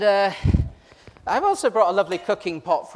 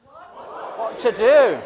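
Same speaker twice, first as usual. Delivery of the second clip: a hammed-up Indian accent, "what to do?" stretched very slowly and a touch louder; a playful, drawn-out Indian-accented "what to do?" with a laugh in it; 5 semitones higher, 6 dB louder, much slower than usual. A drawn-out Indian-accented "what to do?" for the paint-covered volunteer. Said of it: "this only makes sense with an Indian accent".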